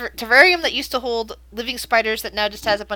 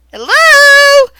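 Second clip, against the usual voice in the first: much higher, much louder hello; creepy madman call; 17 dB louder than usual. Acted. Madman calling up the stairs, loud and high. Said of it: "You hear him go".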